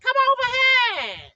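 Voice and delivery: put-on high, loud demonic child; drawn-out, high demonic call. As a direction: imitate a possessed child calling someone over. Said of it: "with a demonic voice. He was speaking like this".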